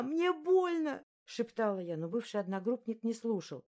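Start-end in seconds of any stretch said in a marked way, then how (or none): 0.0-1.0 high, slow, loud tearful cry; drawn-out sobbing plea. Acted. Sobbing girl repeating her plea, high and slow. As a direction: drag it out through tears. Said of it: "ревела и орала в голос".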